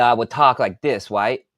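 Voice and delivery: "right" said as "wight", w for r; speech impediment. Shown as a demonstration. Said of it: "I had a speech impediment".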